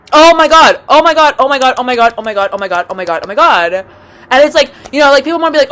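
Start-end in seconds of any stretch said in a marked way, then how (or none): 0.1-3.7 panicked repetition. Acted. Repeats panicked exclamation after scream.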